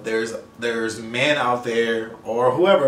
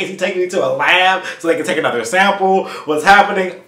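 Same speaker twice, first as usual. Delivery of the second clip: higher-pitched anxious questions; retold panic; 6 semitones higher, 5 dB louder than usual. Client led to a back room, higher anxious voice. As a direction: spiral into louder, worried questioning. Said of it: "I am freaking out".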